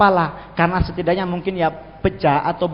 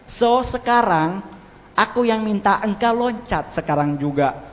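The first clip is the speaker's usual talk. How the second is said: slow, deliberate command to the devil; a hint of a vengeful preacher ordering a demon; lightly acted exorcist; 3 semitones higher, slower than usual. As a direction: lay down the challenge, drawing it out. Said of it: "saking dendamnya sama iblis".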